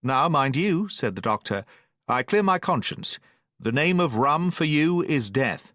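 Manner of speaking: a mild lecture from the doctor; stern doctor. Acted. Doctor's parting warning.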